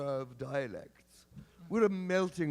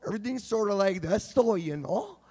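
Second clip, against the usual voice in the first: Kelowna dialect. Shown as a demonstration. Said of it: "And it's like".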